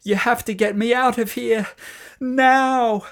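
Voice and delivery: loud high urgent plea; beg, then snap now; desperate plea. A narrator's reading. Boy hanging from branch.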